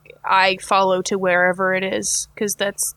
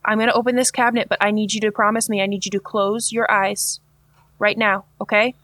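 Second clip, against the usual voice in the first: gentle reassurance; faster than usual. Acted. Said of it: "knock very, very gently and say".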